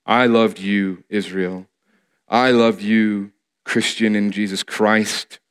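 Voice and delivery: low, slow and gentle; hushed, unhurried reassurance as God; tender divine declaration. Acted. Voicing God's love to his people.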